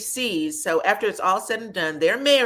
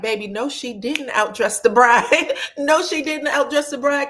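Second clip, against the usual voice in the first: loud, high protest; loud disbelief; 7 semitones higher, 5 dB louder than usual. Real, not acted. Recapping the wedding to viewers, loud disbelief. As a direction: call it out loud to the room. Host reacting loudly to outfit.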